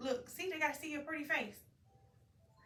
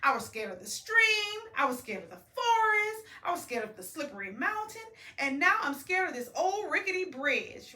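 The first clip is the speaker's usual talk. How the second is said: raised, rushing list of fears; confessing fears; 4 semitones higher, 4 dB louder than usual. Acted. Bear confessing his fears to Bunny, raised and rushing. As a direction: pour out every fear in a row. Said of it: "he goes back and tell her".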